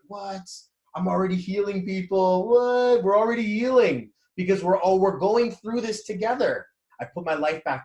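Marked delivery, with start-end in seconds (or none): 0.1-6.7 high, loud, rising in amazement; excited disbelief. Retold or imitated. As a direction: blurt it out, thrilled by the realization. Retold excited realization.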